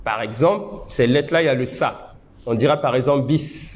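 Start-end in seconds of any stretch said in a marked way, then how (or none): 3.3-3.7 bis ending with a long hiss of air; airy s. Shown as a demonstration. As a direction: let the air run out after bis. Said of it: "vous sentez que l'air coule".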